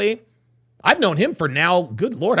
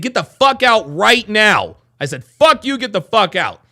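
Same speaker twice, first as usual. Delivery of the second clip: retold anger; 3 semitones higher, 4 dB louder than usual. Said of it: "I saw red".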